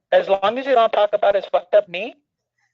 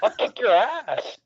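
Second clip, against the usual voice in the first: put-on belligerent drunk; 3 semitones higher, slower than usual. Oscar voice picks a fight.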